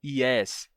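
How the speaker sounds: "yes" with a vowel i onset; wrong yes. Shown as a demonstration. Teacher showing the wrong vowel version. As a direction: begin "yes" with a full i vowel. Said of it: "você não pode dizer".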